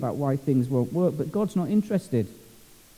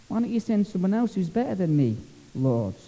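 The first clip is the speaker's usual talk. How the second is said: whining Moses; 2 semitones higher, 3 dB quieter than usual. Retold or imitated. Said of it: "whining and moaning".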